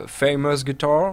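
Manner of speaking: slow, clumsy attempt at a British accent; French speaker's failed British accent; bad British accent. Real, not acted. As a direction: labour over the English with a poor British accent. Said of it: "mon accent british est absolument nul".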